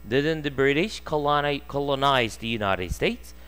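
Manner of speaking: very slow, word by word textbook reading; slow read-aloud. Shown as a demonstration. Teacher reading the sentence slowly to students. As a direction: spell each English word out slowly for the class.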